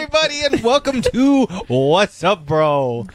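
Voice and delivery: overexcited clown host voice; hammy circus clown welcome; silly clown. Acted. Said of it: "why are you a circus clown".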